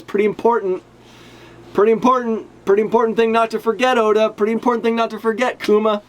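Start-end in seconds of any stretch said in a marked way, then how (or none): 1.7-6.0 higher, fast, taunting sing-song; mocking sing-song. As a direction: rub it in like a playground taunt. Taunting the author with repetition.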